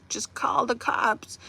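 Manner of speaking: slow whisper; whispered plea. Real, not acted. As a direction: lean in and whisper the advice slowly. Pleading advice to viewers.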